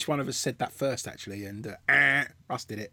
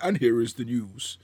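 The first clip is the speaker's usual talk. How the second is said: slow, measured news announcement; mock newsreader; 3 semitones lower than usual. Shown as a demonstration. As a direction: try out a put-on newsreader voice. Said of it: "I was definitely going".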